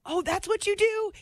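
a mock gasp of discovery; surprised. Cab driver reacting to news of a radio show, surprised.

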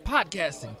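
high raspy soul-singer shout; a famous soul singer's voice. Retold or imitated. Introducing Cliff on stage, in a famous soul singer's voice. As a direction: channel a famous soul singer hyping up a friend. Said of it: "kept talking like James".

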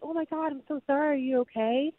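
quick high-pitched concern, retold; apologetic stranger. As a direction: imitate a flustered man apologizing.

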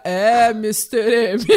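deep, slow announcer voice impression; a hint of a grave TV narrator; Cid Moreira. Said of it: "Daí aparece o Cid Moreira".

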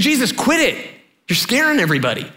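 high-pitched scolding that settles down; exasperated rebuke. Retold or imitated. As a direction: tell him off like an embarrassed friend. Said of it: "begins to rebuke him".

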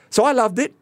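high, loud laughing through the words; laughing confession. Real, not acted. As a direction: laugh while confessing you loved it. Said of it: "He says without missing a beat".

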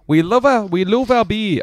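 lightly mock an Irish brewer's lilt; attempted Irish accent. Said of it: "I can't do an Irish accent".

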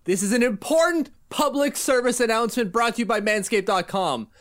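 hammed-up public announcement delivery; emphatic, deliberate podcast promo read; sponsor ad read. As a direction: sell it like a mock bulletin, punching key words. Host performs sponsor ad read.

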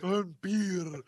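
slow, hammy vampire voice; Dracula. Acted. Demonstrating the vampire voice to co-hosts, slow and theatrical. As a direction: draw it out like a stagey vampire. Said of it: "Dracula stares at the camera".

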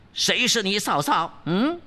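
high, indignant demoness; lightly voiced scolding princess; angry princess. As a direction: snap back who's your sister-in-law. Princess rebuffs him.

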